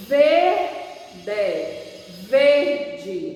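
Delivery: usual speaking voice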